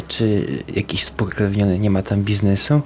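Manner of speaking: normal talking voice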